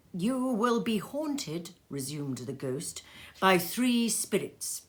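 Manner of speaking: solemn ghostly foretelling; ghost's warning. Acted. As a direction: toll the prophecy slowly like a bell.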